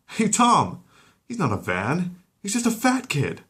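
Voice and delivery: high, loud call to a colleague; guard calling out. Acted. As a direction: shout across the pool.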